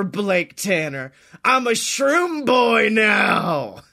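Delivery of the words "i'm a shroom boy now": slow proud hype shout; hyped boast. Pretend. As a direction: announce it like a triumph.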